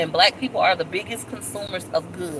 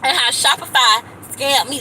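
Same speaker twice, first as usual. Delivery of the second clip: dramatic intro; 7 semitones higher, 5 dB louder than usual. Acted. Dramatic vlog opening complaint.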